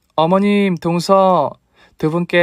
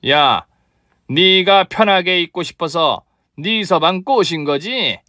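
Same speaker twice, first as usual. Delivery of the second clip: slow, higher accusing shout; angry yell; 4 semitones higher, slower than usual. Acted. Mother-in-law yelling at her daughter-in-law, slow and angry. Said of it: "소리를 질렀습니다".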